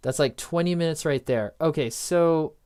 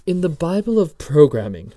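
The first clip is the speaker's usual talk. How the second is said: mock British accent, louder and theatrical; fake British accent; 3 semitones higher, 6 dB louder than usual. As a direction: read it out in a put-on British accent. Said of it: "My fake British accent".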